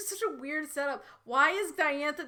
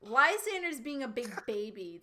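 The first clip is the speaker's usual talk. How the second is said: whined line. Acted. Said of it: "Diantha whined".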